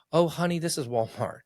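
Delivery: a hint of a blunt Walmart clerk; cashier voiced.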